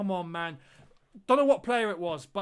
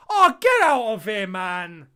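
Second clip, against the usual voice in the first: real fan despair; exasperated outcry; 11 dB louder, slower than usual. Real, not acted. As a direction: shout it at the screen. Reacting to the chance.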